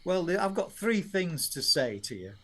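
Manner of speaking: lightly imitated Yorkshire dad; a hint of broader Yorkshire; Yorkshire accent. Father giving his verdict on son's song, retold in Yorkshire accent. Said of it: "Yorkshire accent".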